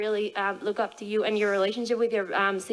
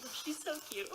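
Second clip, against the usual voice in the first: cooing; 6 semitones higher, 13 dB quieter than usual. Retold or imitated. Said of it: "I'm like".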